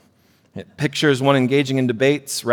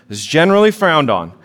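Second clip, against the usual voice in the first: repeated louder for emphasis; 4 semitones higher, 5 dB louder than usual. Shown as a demonstration. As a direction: say it again with weight.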